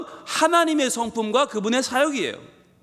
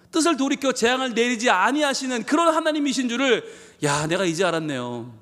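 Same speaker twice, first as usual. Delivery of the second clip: sarcastic. Retold or imitated. Jonah sarcastically reciting God's mercy back to him. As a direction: say 뜻을 돌이켜 재앙을 내리지 아니하시는 with a sneer, not reverence. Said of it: "대놓고 비아냥거리는 거죠".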